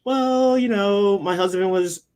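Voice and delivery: high-pitched, put-on humblebrag voice; mock billionaire ex-wife. Billionaire's ex-wife explaining how she got rich, high mocking imitation.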